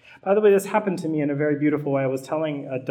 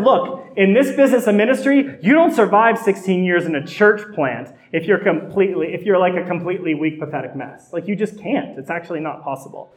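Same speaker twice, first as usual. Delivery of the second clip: blunt scolding mentor; 4 semitones higher, 6 dB louder than usual. Retold or imitated. Blunt analyst scolding the pastor.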